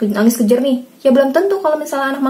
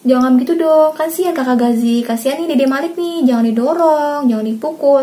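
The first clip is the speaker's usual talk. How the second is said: put-on firm, exasperated telling-off to the kids, voice raised; annoyed scolding; 4 semitones higher than usual. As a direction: scold the children, fed up but holding back. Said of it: "saya udah kesel banget". (omelan kesal ke anak-anak, nada agak meninggi)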